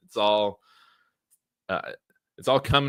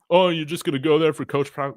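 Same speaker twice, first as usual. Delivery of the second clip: mocking rival coach; 5 semitones higher, 3 dB louder, faster than usual. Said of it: "what are these coaches gonna say".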